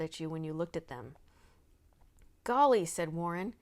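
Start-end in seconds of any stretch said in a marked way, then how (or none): 2.4-2.8 golly, higher and louder in wonder; surprised golly. A narrator's reading. Boy gaping at the dress buttons, amazed. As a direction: gasp it out in wonder.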